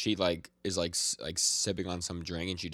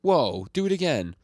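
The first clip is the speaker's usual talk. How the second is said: high, loud, wowed child impression; amazed little girl; 10 semitones higher, 9 dB louder than usual. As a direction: imitate a kid thrilled by a magic trick.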